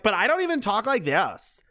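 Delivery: lightly voiced Valley girl; a hint of mocking Valley girl lilt. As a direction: imitate a Valley girl protesting. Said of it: "the stereotypical Valley girl".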